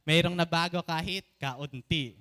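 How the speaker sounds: "Mayroong" punched loud at the start with "nabago kahit kaunti" carried up strong; the bolder take that shows the congregation how big to say it. Shown as a demonstration. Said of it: "ganyan nakalaki yung kaunti natin na, hindi na ganun ha".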